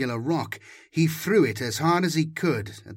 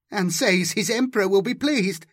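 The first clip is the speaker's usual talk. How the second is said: querulous; 5 semitones higher than usual. Acted. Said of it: "his tone querulous".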